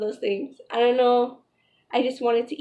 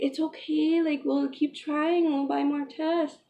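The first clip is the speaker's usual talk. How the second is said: lightly imitated fiance, softer and higher; gently reassuring; 3 semitones higher, 4 dB quieter than usual. Fiance comforting crying partner over negative test, mildly reassuring. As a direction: console with a touch of tenderness.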